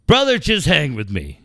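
big voice. Retold or imitated. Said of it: "he's got this big voice".

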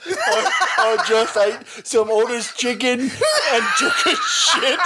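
loud, slow, high hunchback voice; slurred mock monster, near laughing; Quasimodo. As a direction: play a hammed-up lumbering ogre. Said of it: "I love doing Quasimodo voice".

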